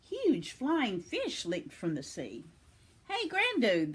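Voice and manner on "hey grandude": high-pitched excited call. A narrator's reading. Children hail Grandude at the beach, calling out. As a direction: call out to get attention. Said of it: "they called".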